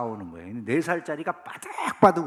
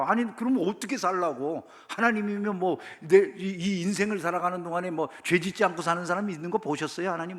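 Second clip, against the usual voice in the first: defiant protest; 4 semitones higher than usual. Retold or imitated. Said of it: "뭐 이러고 아주 당당해".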